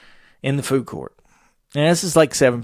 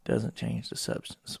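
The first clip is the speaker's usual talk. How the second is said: slow deliberate reading; 8 dB quieter, slower than usual. Shown as a demonstration. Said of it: "It says".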